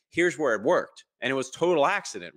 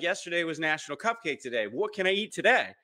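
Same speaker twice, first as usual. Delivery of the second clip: high imitated child's voice, rising higher; eager daughter; 7 semitones higher than usual. Daughter asking dad what she can eat, imitated eager child. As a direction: play an eager little kid, pitched up. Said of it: "Uh, she's like".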